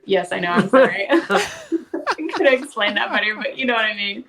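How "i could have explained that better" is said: laughing. Real, not acted. Laughing apology.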